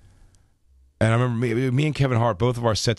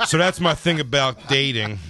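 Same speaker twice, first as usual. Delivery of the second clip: laughing cover; 3 semitones higher than usual. Retold or imitated. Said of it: "dust yourself off and be like".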